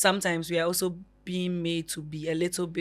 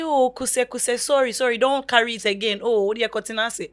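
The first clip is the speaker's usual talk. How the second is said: higher, louder acted fussing over a hurt child; mock fussing sympathy; 6 semitones higher, 5 dB louder than usual. Relatives fussing over someone who fell and cries, mock sympathy. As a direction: gush sympathy, pitched up. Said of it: "Would they say".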